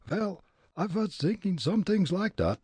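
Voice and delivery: put-on high, comic German-accented Fritz; thick immigrant German accent, pitched high. Fritz sizing up the old man, German accent.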